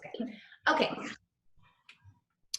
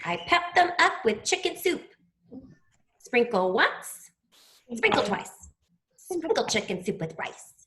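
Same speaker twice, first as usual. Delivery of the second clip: poem recitation. Acted. Class poem, teacher leads.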